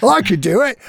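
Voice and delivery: high, hammed-up Australian; comic Australian twang; Australian accent. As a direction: do a playful Aussie accent. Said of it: "I don't know why I got Australian".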